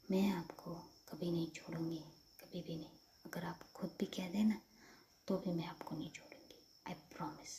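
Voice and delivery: hushed, earnest vow; tender promise. Acted. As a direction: promise gently and sincerely. Acted tender promise never to leave.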